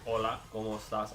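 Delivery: Spanish accent with native-sounding vowels. Shown as a demonstration. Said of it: "I sound like I, like, my Span".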